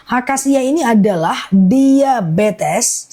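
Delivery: slow, deliberate product rundown; slow repeat. Real, not acted. Live seller repeating product uses for viewers, slowly. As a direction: spell it out slowly for buyers. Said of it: "Aku ulang pelan-pelan ya".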